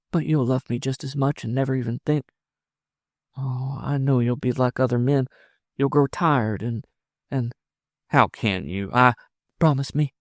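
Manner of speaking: high, halting woman's voice; anxious woman in love. Acted. Woman fearing her lover will tire, anxiously pleading. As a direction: plead with him, faltering between thoughts.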